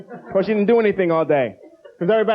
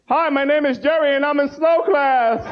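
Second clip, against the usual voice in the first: support group intro; 6 semitones higher, slower than usual. Retold or imitated. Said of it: "raising our hands".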